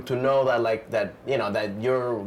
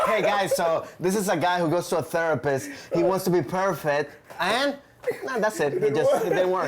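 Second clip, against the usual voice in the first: laughing through a quote; 5 semitones higher than usual. Retold or imitated. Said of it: "where's the worst pitch ever?".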